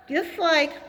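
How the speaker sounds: talking around food in mouth; mouth full. Real, not acted. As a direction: say it with something in your mouth. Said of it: "I had something in my mouth".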